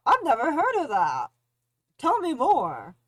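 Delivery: loud, patronising fake interest; condescending voice. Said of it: "That's such a condescending voice".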